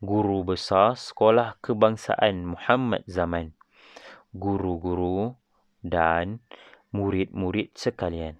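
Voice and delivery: measured, formal school speech; formal speech reading. Shown as a demonstration. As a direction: read it like a head prefect at assembly. Reads a Teacher's Day speech aloud. (pidato formal ketua pengawas)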